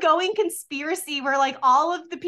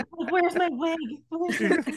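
laughing; 3 semitones higher than usual. Real, not acted. Laughing joke.

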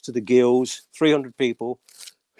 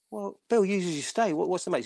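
acted quote; 7 semitones higher, 6 dB quieter than usual. Producer asks, voiced higher.

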